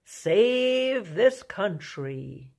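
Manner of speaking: drawn-out, very slow sarcastic "save this country"; mocking hopeful believers. Preacher mocking Trump supporters' hopes, slow and sarcastic. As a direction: stretch it out in mock hope. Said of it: "because they think".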